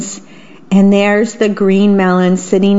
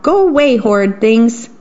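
mock shout; 2 semitones higher than usual. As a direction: shoo the children off like a cranky old mouse. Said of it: "he would shout".

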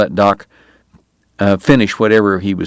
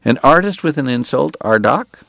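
bright; 5 semitones higher than usual. Acted. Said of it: "he told the priest brightly".

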